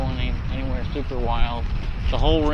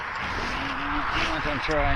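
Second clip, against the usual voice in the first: high silly voice; 10 semitones higher, 6 dB quieter, much slower than usual. Acted. Comic aside while riding.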